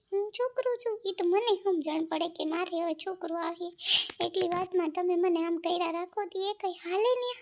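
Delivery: high, complaining daughter-in-law voice, rising to a squeak on છોકરું; whiny young wife. Acted. Young wife complaining to her husband about taunts, high and whiny. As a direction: play the hurt young wife who feels taunted.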